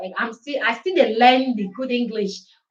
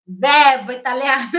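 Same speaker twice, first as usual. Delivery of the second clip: loud, bright announcement; excited; 2 semitones higher, 7 dB louder than usual. Real, not acted. Excitedly naming the next Italian lesson. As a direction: call it out like a lesson title.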